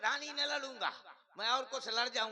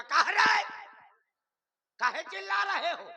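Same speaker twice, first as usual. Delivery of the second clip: loud, stern father's bark, pitched up; gruff shout; 5 semitones higher, 9 dB louder than usual. Pretend. Father barking at his children: loud gruff shout. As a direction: shout back at the kids like an angry dad. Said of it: "बड़े ताई में बोला करूंगा".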